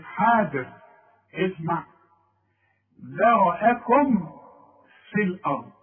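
ذرأكم with meem clearly closed before في, slow; slow tajweed demo. Shown as a demonstration. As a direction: hold the lips on the meem of ذرأكم. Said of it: "بيقول لك".

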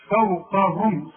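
فوقهم with lips closed on the meem; slow demo of فوقهم; clear meem. Shown as a demonstration. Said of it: "شوف".

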